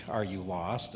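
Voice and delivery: offhand everyday "Are you lost?"; directional question. Shown as a demonstration. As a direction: ask "Are you lost?" like asking a stranger the way.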